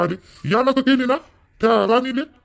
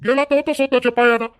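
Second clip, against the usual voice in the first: higher, sharp rebuke; angry rebuke; 5 semitones higher than usual. Acted. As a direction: throw the question at him, pitched up. Father rebukes son for returning.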